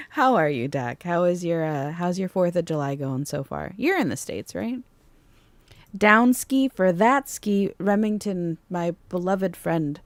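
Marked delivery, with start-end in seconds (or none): 6.0-7.7 slower, louder, drawn out goofy slang; mock proud repeat; goofy catchphrase repeated. Real, not acted. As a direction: lean into the silly phrase for a friend. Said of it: "words that were never meant to be repeated".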